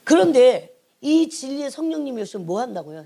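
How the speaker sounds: ordinary talk, nothing marked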